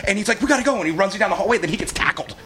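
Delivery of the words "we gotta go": very high, urgent plea; retold panicked urging. Trembling rescuer hurrying captive out, panicked. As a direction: act out someone desperate to bolt. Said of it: "he's, like, shaking and trembling".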